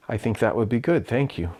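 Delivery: mock-serious, restrained professional reply; straight-faced. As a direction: hold the excitement in and answer evenly. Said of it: "try to very straight face say".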